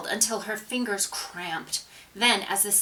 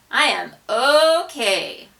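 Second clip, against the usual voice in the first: firm; 4 semitones higher, 7 dB louder, slower than usual. A narrator's reading. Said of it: "she replied firmly".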